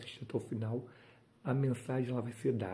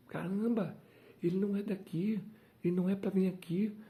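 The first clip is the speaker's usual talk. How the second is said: higher, amazed murmur of the crowd; astonished onlookers; 7 semitones higher, faster than usual. Acted. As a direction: gasp it as a stunned bystander.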